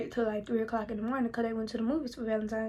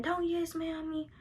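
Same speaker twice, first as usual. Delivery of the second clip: higher-pitched retort from a fussing mother; mock scolding, pitched up; 5 semitones higher than usual. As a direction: imitate a mother rejecting backtalk. Mother snapping back, retold.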